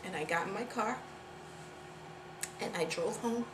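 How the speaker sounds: soft, low, halting admission; subdued, guilty near-murmur; hushed confession. Acted. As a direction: confess it quietly, with long pauses.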